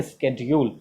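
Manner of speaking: SCHEDULE with a hard SK; right pronunciation. Shown as a demonstration. Teacher confirms for students, शेड्यूल as "is-ked-jool". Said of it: "ये एकदम right pronunciation है".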